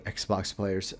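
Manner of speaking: a quiet, half-sighed "Xbox players"; soft plea. Real, not acted. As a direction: let "Xbox players" fall away almost under your breath. Repeated plea, much softer.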